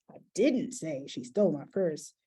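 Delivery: didn't leaned on hard; stress on didn't. Shown as a demonstration. Speaker showing how a tweet reads, stress on didn't. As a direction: hit the word didn't. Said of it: "Anybody gets to read this sentence however they want to".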